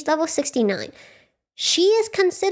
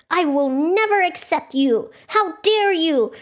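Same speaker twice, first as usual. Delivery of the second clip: raised, slowed, indignant mock outburst; mock freak-out; 5 semitones higher, slower than usual. Werecat freaking out at Kena over cake, mock outrage. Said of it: "This werecat freaks out".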